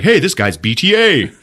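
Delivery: high loud henchman call; high goon voice. Retold or imitated. Guard calling out.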